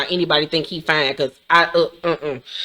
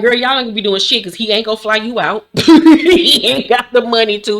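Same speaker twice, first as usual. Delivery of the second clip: laughing; 3 semitones higher, 3 dB louder than usual. Retold or imitated. Laughing mock advice to cast member.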